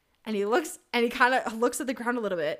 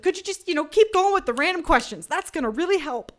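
higher and louder, half-joking sarcasm; mock-sarcastic plea; 7 semitones higher, 9 dB louder than usual. Patient begging the vaccinator for questions, loud and sarcastic. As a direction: push him to keep distracting you. Nervous sarcastic request to nurse.

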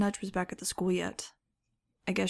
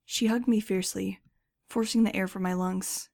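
usual speaking voice

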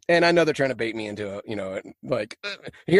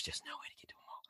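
whisper; 24 dB quieter, much faster than usual. Acted. Whispered end of quoted reply.

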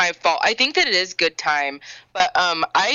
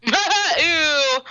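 squealed through a laugh; disgusted giggling ew; 9 semitones higher than usual. Real, not acted. Reacting to sexy voice comment.

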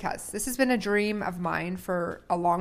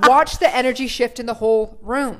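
excited; 3 semitones higher, 14 dB louder than usual. Real, not acted. Excited call to dance.

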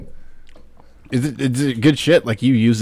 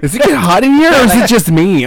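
hammy seductive line; 9 semitones higher, 6 dB louder than usual. Acted. Mock sultry line.

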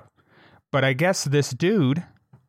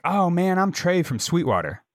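imitated drunk; 5 semitones higher than usual. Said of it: "he's wasted drunk".

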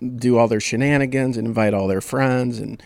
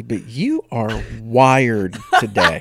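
laughing; slower than usual. Real, not acted. Teasing co-host, laughing.

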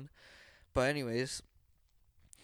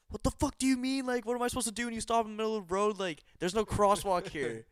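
retold screaming; 6 semitones higher than usual. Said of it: "I was just screaming at him".

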